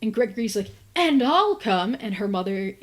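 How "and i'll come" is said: slow, louder, higher eager chime-in; the pesky brother inviting himself along; eager tag-along. Retold or imitated. Younger brother butting in on the walk, loud and eager.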